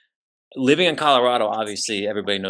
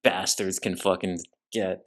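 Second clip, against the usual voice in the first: mock rant; 4 semitones higher, 5 dB louder than usual. Ranting at critics.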